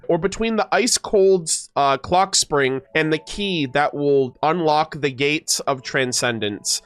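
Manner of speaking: measured dramatic reading of flavor text; lore narration. Acted. Streamer reads weapon lore to chat, storybook narration. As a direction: read it like a fantasy storyteller.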